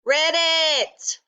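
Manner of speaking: high, insistent frog voice; insistent frog croak. A narrator's reading. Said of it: "croaked Ribbit".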